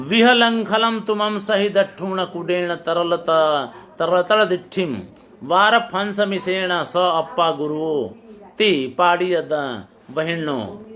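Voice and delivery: slow, measured recitation of a Prakrit verse. Acted. Teacher reads the second Prakrit example aloud to students, slowly recited. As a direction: chant the verse slowly, line by line.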